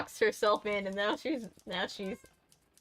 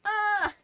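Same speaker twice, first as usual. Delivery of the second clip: high exclamation; 13 semitones higher, 3 dB louder than usual. Real, not acted. Exclaims while fixing mess behind stream.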